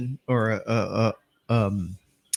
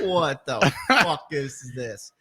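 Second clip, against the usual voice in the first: slow disbelief; 2 semitones lower, much slower than usual. Retold or imitated. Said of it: "And I'm like".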